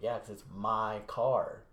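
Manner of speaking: "my car" drawn out slowly, without raising the voice; slow, emphatic "my car", mildly fed up; retold snap. Snapping at the drunk man leaning on the car, understated exasperation. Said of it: "I finally snapped".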